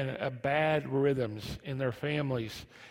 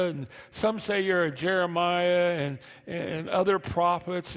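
high, loud excited preaching; 5 semitones higher, 4 dB louder than usual. Acted. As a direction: preach the scene with fire. Preaching retold scene.

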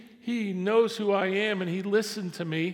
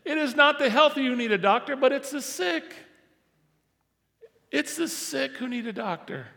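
higher, firm teaching voice; a lightly voiced Jesus explaining; Jesus declaring; 8 semitones higher, 4 dB louder than usual. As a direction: set them straight with authority. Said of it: "here's what he says".

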